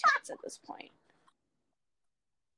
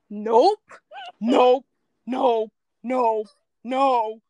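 repeated nopes; 5 dB louder, much slower than usual. Retold or imitated. Reacting to ongoing scene.

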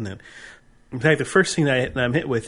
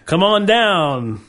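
slow, loud, higher host call; game show host; 4 semitones higher, 6 dB louder, slower than usual. Acted. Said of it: "I was trying to do my".

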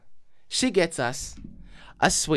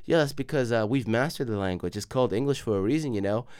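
mock-condescending, lower and softer; 4 semitones lower, 5 dB quieter than usual. Englishman lecturing on language, mock condescension. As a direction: imitate a superior, quiet put-down. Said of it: "everything he said was condescending".

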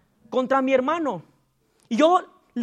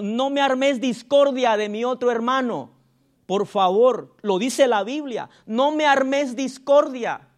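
voice of authority. Shown as a demonstration. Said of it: "así con voz de autoridad".

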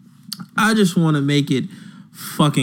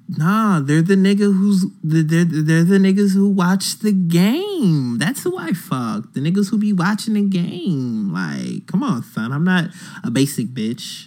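mocking the woman; 5 semitones higher than usual. Host retelling what she said, mocking imitation. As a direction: imitate her indignant protest, pitched up. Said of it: "She said".

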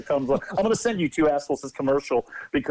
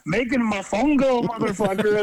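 mock video guy; 8 semitones higher than usual. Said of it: "he goes".

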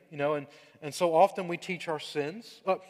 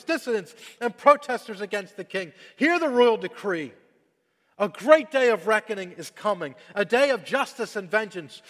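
loud ringing royal proclamation, higher; town crier; 4 semitones higher, 6 dB louder than usual. Acted. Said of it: "Listen to this proclamation he writes up for us, sort of an old-fashioned town crier".

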